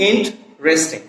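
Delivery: ইন্টারেস্টিং with the middle e dropped, "in-tresting"; correct pronunciation. Shown as a demonstration. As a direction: say ইন্টারেস্টিং in three syllables, in-tres-ting. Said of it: "উচ্চারণটা হচ্ছে কি". (শুদ্ধ উচ্চারণে ইন্টারেস্টিং, ই-ধ্বনি বাদ দিয়ে)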